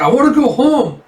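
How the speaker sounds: high, loud tantrum wail; a small boy screaming to go home; high shouted child's cry; crying child's yell. Acted.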